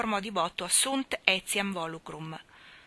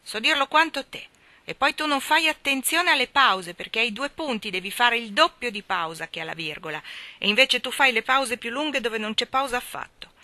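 louder, higher indignant scolding; heated retort; 4 semitones higher, 5 dB louder than usual. A narrator's reading. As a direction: lecture him back. Sulky sister hitting back.

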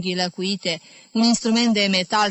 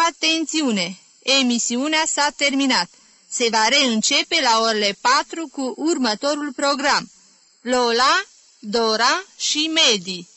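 higher, measured mock announcer; slow radio announcement; 5 semitones higher, 3 dB louder than usual. A narrator's reading. Jim signs off like a radio announcer, higher and measured. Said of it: "Și Jim anunță iar, rar".

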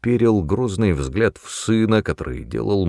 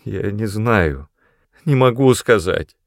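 whimpering. Acted. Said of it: "захныкал Мэтью".

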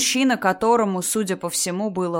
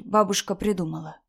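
light, unforced reassurance; soothing mother. Acted. Mother explaining grandmother's claim to daughter, soothing. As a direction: gently dismiss it for a child.

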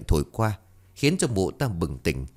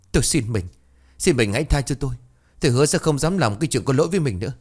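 higher, desperate pleading, rising in pitch; 5 semitones higher, faster than usual. Acted. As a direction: third wife begs husband for mercy, pleading desperately. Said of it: "van xin".

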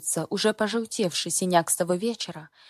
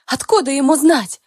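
hoarse rasp; 7 semitones higher, 9 dB louder than usual. Acted. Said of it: "Хриплю".

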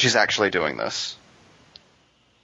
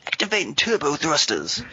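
Lori Petty; 6 semitones higher than usual. Retold or imitated. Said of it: "a video game where Lori Petty narrates everything".

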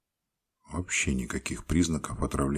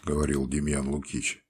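usual speaking voice

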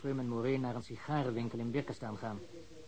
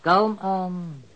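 louder, firm "Kalm aan"; insistent calm down; 5 semitones higher, 9 dB louder than usual. Acted. Informer holding back eager cops, firm and louder. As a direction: push them to slow down.

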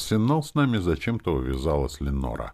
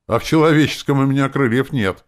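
cheeky; 11 semitones higher, 11 dB louder than usual. A narrator's reading. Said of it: "ответила она рисковато".

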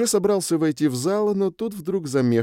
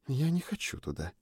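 hushed, reluctant and much softer; whisper; 4 semitones higher, 10 dB quieter than usual. A narrator's reading. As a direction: breathe it out unwillingly. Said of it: "прошептала Сьюн".

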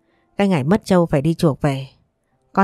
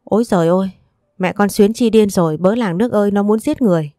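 mild mock scream; 2 semitones higher than usual. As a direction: shriek to the village, but only lightly. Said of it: "hét toáng lên". (tiếng kêu cứu giả vờ, nhẹ và cao hơn)

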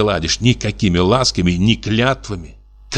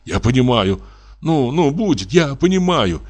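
tender; 5 semitones higher than usual. Acted. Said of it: "говорил нежно".

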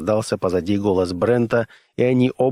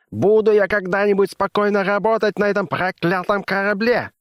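higher exasperated rant; raging scientist; 10 semitones higher than usual. A narrator's reading. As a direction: vent at the cursed ship. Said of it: "взревел Оверхольц".

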